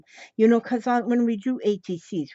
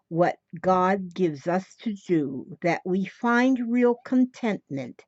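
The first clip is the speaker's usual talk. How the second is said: poem reading. Acted. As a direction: read it like a devotional verse. Reads a poem aloud.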